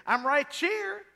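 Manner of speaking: put-on slow, high Virginia drawl of a small boy; Virginia boy accent. Uncle as a little boy in Virginia, a light Virginia accent. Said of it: "That's how they talk in Virginia".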